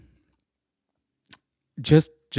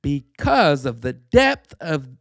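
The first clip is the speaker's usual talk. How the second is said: lightly done British accent. Shown as a demonstration. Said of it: "my British accent is not very strong".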